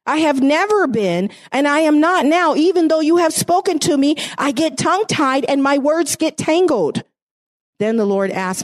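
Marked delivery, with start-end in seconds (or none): 0.0-7.0 a touch higher, earnest pleading; mildly pleading, hesitant voice; pleading Moses. Acted. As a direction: beg the Lord as a reluctant Moses. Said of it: "Moses pleaded with the Lord".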